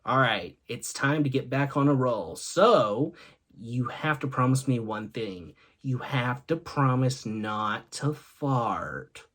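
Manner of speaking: low, quiet, measured demand; mock-solemn child. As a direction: lay down a solemn condition, slowing at the end. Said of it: "Ethan looks at her and says".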